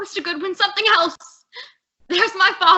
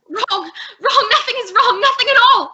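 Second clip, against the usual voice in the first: rising, louder, near-hysterical cry; hysterical denial; 4 semitones higher, 3 dB louder than usual. Acted. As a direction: she is coming apart as she insists. Hysterical denial after finding body.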